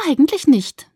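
snorting dismissal. A narrator's reading. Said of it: "sie schnaubte".

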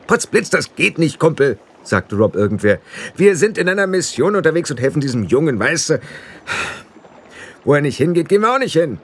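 high, eager little blue man; squeaky fairy barking an order; high pixie voice. A narrator's reading. Pixie chief urging the boy to run, high eager voice. Rob Anybody's voice.

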